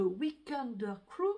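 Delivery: English name with a real French accent. Real, not acted. Vlogger naming an English pattern to viewers, French accent. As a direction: say the English title in your own French accent. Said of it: "vous moquer de mon accent en anglais".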